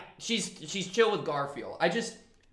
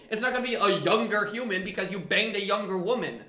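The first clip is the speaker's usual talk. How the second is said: loud, high-pitched exasperated rant; mad rant; 6 semitones higher, 6 dB louder than usual. Real, not acted. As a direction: get worked up and argue it loudly. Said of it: "I needed to get mad at this".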